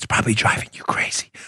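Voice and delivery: soft whisper under the breath. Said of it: "I'm whispering".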